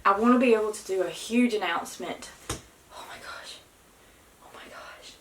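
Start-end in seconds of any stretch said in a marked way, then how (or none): 2.5-5.1 awed whisper. Real, not acted. Watching the line darken.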